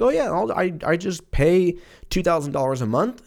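high-pitched, airy imitation; mock someone casually shrugging off huge payments; blithe debtor. Imitating people casual about big payments.

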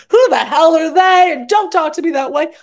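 high, loud indignant yell; mock outrage at being told off; mock angry shout. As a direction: bark it like an offended friend. Retold angry retort.

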